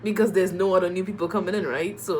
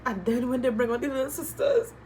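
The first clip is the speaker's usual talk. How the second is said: crying out; 4 dB louder than usual. Real, not acted. Breaking down at sisters' arrival.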